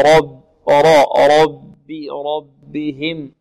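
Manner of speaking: slow ربهم, thick r against thin b; heavy ر, light ب. Shown as a demonstration. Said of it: "الراء مفخمة والباء مرقة". (ربهم بتفخيم الراء وترقيق الباء)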